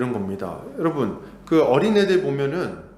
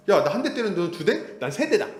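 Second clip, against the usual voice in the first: put-on kid escalating; 4 semitones higher than usual. Child escalating.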